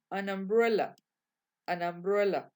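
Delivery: "an umbrella" with the N carried onto the U, said like "a-numbrella"; linked an umbrella. Shown as a demonstration. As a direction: run the N of "an" straight into "umbrella". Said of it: "la N haciendo la liaison con la U".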